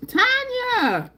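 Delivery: high, loud squeal of her name; excited yell. Real, not acted. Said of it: "I'm yelling, I'm so excited".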